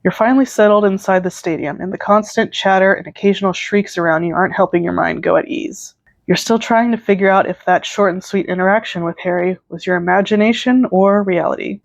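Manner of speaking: measured second-person storytelling; story narration. A narrator's reading. Narrator setting up a concert fan fiction, story narration. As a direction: read it out like a story.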